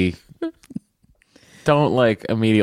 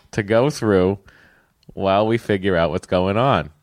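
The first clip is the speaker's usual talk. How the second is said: put-on Boston accent. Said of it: "read it with a Boston accent".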